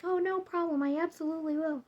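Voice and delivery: high, bright-eyed mock promise; sarcastic agreement. Mocking her doctor's drive advice with sarcasm. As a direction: say it like you'd never dream of disobeying.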